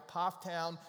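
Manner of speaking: Pofftown with a firm, open POFF; local pronunciation. Shown as a demonstration. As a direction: model the town name Pofftown as POFF-town. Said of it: "Get that right".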